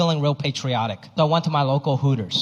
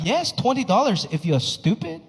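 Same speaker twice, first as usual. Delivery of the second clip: lightly voiced scolding mom; mock the mother's put-down; 4 semitones higher than usual. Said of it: "It's like".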